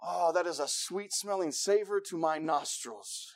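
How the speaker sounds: slow, softened relish; savoring. Acted. Preacher acts out smelling green chili, savoring. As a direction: linger slowly over a delicious smell.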